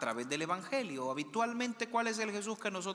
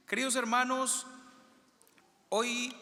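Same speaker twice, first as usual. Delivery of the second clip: projected greeting; 7 semitones higher than usual. Real, not acted. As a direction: call out to the whole congregation. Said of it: "dicen que no se escucha".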